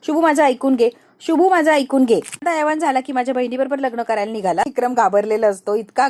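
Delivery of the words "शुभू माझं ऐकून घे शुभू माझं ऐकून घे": loud panicked begging; pleading. Acted. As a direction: beg for mercy while being hit. Vikram pleads while being beaten. (घाबरून केलेली विनवणी)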